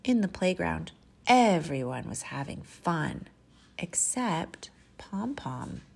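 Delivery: animated picture-book reading with measured pauses; expressive children's storyteller; storytime narration. Acted. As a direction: read it to little children, savoring key words.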